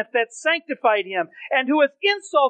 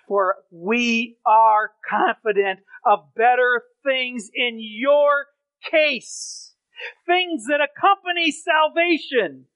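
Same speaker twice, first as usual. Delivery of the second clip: slow deliberate reading; 2 semitones lower, slower than usual. Acted.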